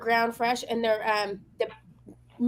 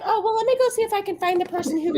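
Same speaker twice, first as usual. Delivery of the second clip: mocking the clerk; 5 semitones higher, faster than usual. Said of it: "She's like".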